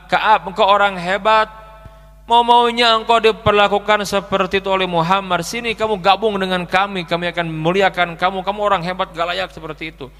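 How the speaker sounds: mildly voiced flattering king; tempting letter. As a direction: sweet-talk him over to your side. Enemy king's persuasive letter.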